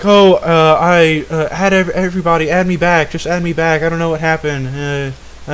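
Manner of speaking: mock pleading. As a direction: mockingly beg to be let back in. Voices the removed friend begging back.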